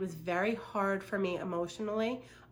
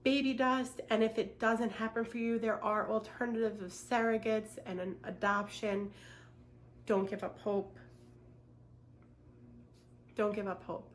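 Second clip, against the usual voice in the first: crying while talking; 2 semitones higher than usual. Real, not acted. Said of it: "I'm sorry I'm crying".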